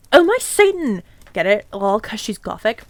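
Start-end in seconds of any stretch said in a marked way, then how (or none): 0.1-1.0 gasp. Acted. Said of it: "Gasped Bloody Mary".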